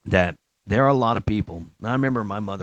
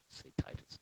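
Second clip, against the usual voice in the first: laughing aside; 17 dB quieter than usual. Real, not acted.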